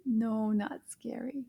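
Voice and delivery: whispered puppet reply. Pretend. Puppet whispers back to the teacher.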